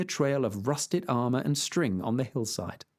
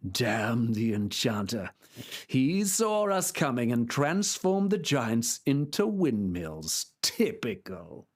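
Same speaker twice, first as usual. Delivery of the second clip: put-on grumbling old knight; 2 semitones lower, slower than usual. Knight on the ground blaming the enchanter, slow grumble. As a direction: grumble it slowly. Don Quixote's voice.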